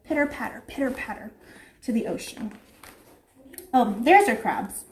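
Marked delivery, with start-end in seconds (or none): 0.1-2.5 soft sing-song. Pretend. Soft turtle steps.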